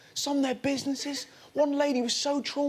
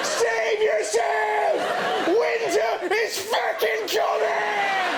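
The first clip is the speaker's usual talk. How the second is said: Game of Thrones doom; 8 semitones higher, much slower than usual. Retold or imitated. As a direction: proclaim like a doomed herald. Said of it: "She's like something out of Game of Thrones".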